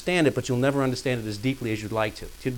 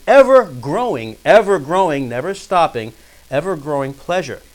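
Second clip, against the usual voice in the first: forceful opening, easing into measured reading; lightly declaimed quotation; formal quote reading; 3 semitones higher, 6 dB louder than usual. Acted. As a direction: read it out with weighty emphasis. Reads a quotation aloud.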